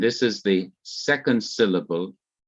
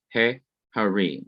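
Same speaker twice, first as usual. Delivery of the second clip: he held apart from harim; short break after he, harim falling at the end; pause after he. Shown as a demonstration. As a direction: separate he from harim with a small pause. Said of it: "there is a pause after the definite article".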